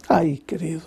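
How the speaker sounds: whispered, compassionate sigh; tender whisper. Real, not acted. Pastor whispers to the wounded sinner in compassion.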